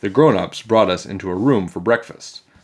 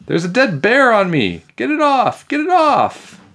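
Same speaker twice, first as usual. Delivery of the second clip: high, loud squealing panic, climbing; freaking out; 14 semitones higher, 5 dB louder than usual. A narrator's reading. Emily under the dead bear, freaking out. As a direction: scream for rescue, rising higher. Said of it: "freaking out on the floor".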